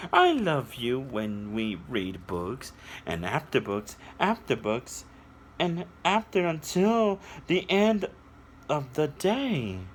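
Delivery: sing-song read-aloud, slowing on the last line; storybook reading. A narrator's reading. Reading a picture book aloud to children, sing-song storytelling.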